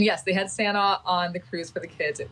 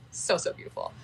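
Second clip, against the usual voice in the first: soft whisper; 4 dB quieter than usual. Real, not acted. Whispered after "so beautiful.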